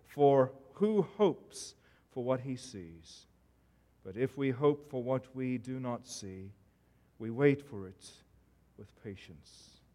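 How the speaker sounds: measured, solemn Bible reading; scripture reading. Acted. Preacher reading the lesson to his congregation, solemn scripture reading. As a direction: read the verse out as holy text, unhurried. Reads scripture before the sermon.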